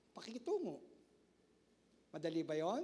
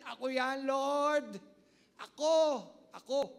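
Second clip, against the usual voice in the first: fervent confession; 2 semitones higher, 7 dB louder, slower than usual. Acted. Pastor voicing confession to God.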